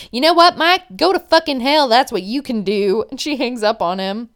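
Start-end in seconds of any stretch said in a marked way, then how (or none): 0.1-3.0 loud, high retold outburst, dropping at the end; mock-furious dismissal; furious send-off. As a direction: imitate a girlfriend blowing up before hanging up. Acted end of quarrel, hangs up.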